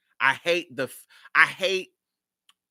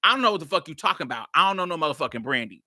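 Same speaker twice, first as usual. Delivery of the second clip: fast, hard brush-off; aggressive dismissal; much faster than usual. Shown as a demonstration. How he really answered the challenger: fast, cocky brush-off. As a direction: rattle it off fast and defiant. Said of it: "I'm saying".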